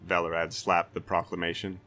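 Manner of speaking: a proud castellan threatening a brigand; stern Castellan. Acted. Castellan threatening the white-haired stranger, blustering.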